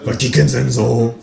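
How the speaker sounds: nosy Berlin neighbour voice; downstairs neighbour. Acted. Downstairs neighbour pries about the newcomer, in Berlin dialect. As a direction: ask as the Berlin woman downstairs. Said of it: "fragt sie".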